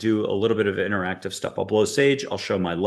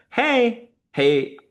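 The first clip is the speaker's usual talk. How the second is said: very high, chirpy, bubbly and peppy voice; 14 semitones higher than usual. Describing the voice you hear the second you let go: high peppy voice. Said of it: "a high peppy voice".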